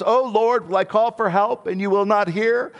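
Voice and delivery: high, pleading lament to God; Habakkuk crying out. Acted. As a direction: cry it out as the anguished prophet. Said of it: "he cries out and says".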